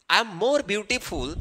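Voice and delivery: slow model sentence; slow dictation. Shown as a demonstration. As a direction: read out slowly for the class. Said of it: "और तब लिखेंगे beautiful". (धीरे-धीरे उदाहरण वाक्य)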